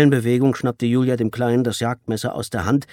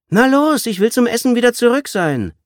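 loud, much higher bored nagging; impatient shout; 10 dB louder than usual. Acted. Lanky girl impatiently yells at the little boy. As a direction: snap at him to get on with it.

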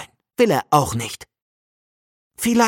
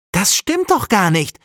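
firm, slightly raised protest; calling out; 5 semitones higher than usual. Acted. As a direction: push back on her brother. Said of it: "ruft Conny".

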